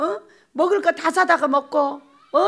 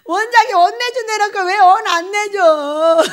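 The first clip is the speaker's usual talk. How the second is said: imitating a teary, whining protest, slower; mock sobbing complaint, higher and louder; crying complaint; 5 semitones higher, 6 dB louder, slower than usual. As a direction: whine it through tears like a wronged kid. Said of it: "얘가 와서 울면서 하는 말".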